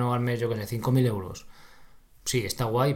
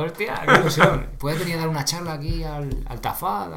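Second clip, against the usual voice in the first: excited; 5 semitones higher, 4 dB louder than usual. Retold or imitated.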